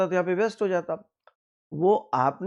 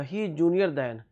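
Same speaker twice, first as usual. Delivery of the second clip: slow wrong example; much slower than usual. Shown as a demonstration. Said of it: "junior than नहीं होगा".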